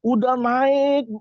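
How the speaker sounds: very slow, high, stretched word; drawn-out climb. Retold or imitated. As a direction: stretch it upward like a long climb. Mimes a long climb up.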